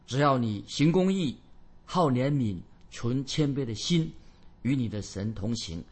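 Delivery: slow, deliberate recitation of a prophet; solemn scripture reading. Acted. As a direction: proclaim the verse with spaced phrases. Reads the prophet's verse.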